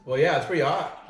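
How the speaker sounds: laughing. Real, not acted. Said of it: "You're crying".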